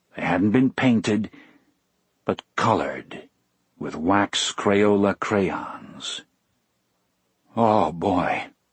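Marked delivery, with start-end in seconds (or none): 7.6-8.5 shaky, trembling, low-pitched voice. The narrator reacts to finding the colored pieces, in a low, shaky voice. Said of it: "I said in a low, shaky voice".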